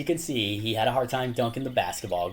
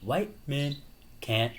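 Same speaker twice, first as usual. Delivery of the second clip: higher, louder trash-talk taunt; taunting movie voice; 6 semitones higher, 5 dB louder, slower than usual. Retold or imitated. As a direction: tease him in a put-on voice. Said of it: "He's like".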